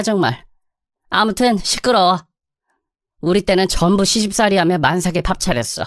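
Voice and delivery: lightly voiced mother-in-law, scolding; a hint of a sharp-tongued mother-in-law; nagging mother-in-law. Mother-in-law scolding her daughter-in-law, mildly nagging voice.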